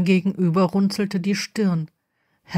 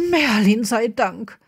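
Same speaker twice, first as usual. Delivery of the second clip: relieved exclamation; 3 semitones higher than usual. Acted. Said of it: "rief Minerva aus".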